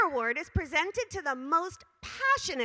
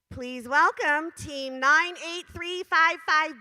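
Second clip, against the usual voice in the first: slow, louder winner announcement; announcer call; 4 dB louder, slower than usual. Real, not acted. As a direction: build up to the team number. Announcing award winner at event.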